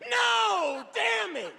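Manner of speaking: very high, strained shot-victim yell; mock wounded cry. Comedian pretending to be shot by the dude, high strained yell. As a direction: cry out like you just got shot. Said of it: "He was like, I said".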